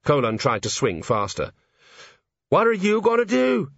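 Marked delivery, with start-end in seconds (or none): 2.5-3.7 high, strained and fearful; man hanging from a roof asks the gnome, panicky; panicked question. A narrator's reading. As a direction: blurt it out in alarm.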